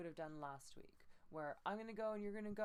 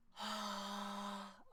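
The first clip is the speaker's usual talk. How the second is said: airy ha with warm air; breathy sustained ha; breathy ha note; 3 semitones higher than usual. Shown as a demonstration. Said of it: "on this one".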